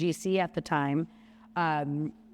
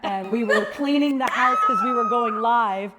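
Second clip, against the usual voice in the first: laughing; 4 semitones higher, 6 dB louder than usual. Real, not acted. Telling it while laughing.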